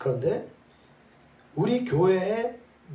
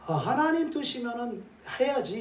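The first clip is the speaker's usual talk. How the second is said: acted acceptance; 9 semitones higher than usual. Acts out a believer giving in.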